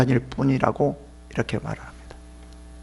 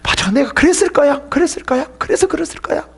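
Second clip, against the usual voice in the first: higher pleading self-accusal; a touch of mock confessing; 10 semitones higher than usual. Believer answers accusing friends, lightly acted guilt. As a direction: convince yourself you're guilty. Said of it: "없어도".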